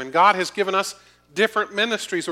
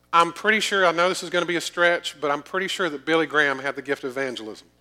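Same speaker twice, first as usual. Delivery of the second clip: tongue-in-cheek mock hedging, tailing off quicker; sarcastic; faster than usual. Real, not acted. Preacher joking to congregation about Billy Graham's gift, sarcastic. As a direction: understate the obvious with dry sarcasm. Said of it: "Sarcasm intended".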